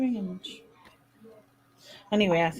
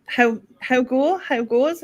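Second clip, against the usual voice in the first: mock Australian; 3 semitones higher, 3 dB louder, slower than usual. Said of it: "I know she says".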